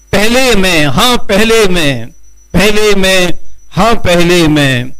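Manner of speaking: slow, measured Urdu nazm recital; poetry recitation. Acted. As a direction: declaim the verse line by line with pauses. Recites his nazm at mushaira.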